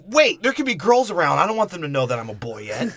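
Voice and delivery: a hint of a fussy kid; prissy mock voice.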